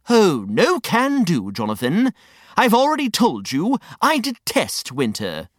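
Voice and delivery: a touch of pompous refusal; indignant Reg, refusing. Acted. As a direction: refuse with mild theatrical disdain. Character refuses flatly.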